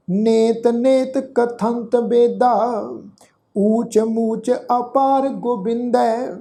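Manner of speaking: slow, measured verse reading with held vowels; drawn-out devotional reading; scripture recitation. Shown as a demonstration. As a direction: recite the sacred verse slowly, stretching the endings. Recites whole verse through.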